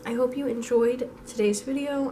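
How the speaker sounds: rough, hoarse sick voice; hoarse voice, worn out. Real, not acted. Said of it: "I'm sorry that I sound like a dying goose".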